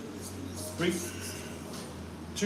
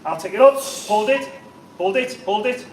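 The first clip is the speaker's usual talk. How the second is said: loud, higher spotter urging; urgent shout; 4 semitones higher, 6 dB louder than usual. Real, not acted. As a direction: push her to hold. Spotting, urging her to hold.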